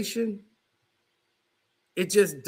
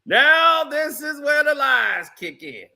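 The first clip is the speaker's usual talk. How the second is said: shout; 5 semitones higher than usual. Real, not acted. Calling out the lies.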